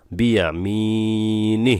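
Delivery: বিয়া মি নি with long মি and নি cut short on an h; no stretch on the final নি; stopped ending. Shown as a demonstration. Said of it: "কোনো টান হবে না". (বিয়া মি নি, নি-তে টান ছাড়া থামা)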